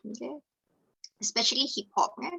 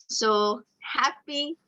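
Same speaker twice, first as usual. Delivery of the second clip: happy; 2 semitones higher, much slower than usual. Shown as a demonstration. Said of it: "variety of facial expression".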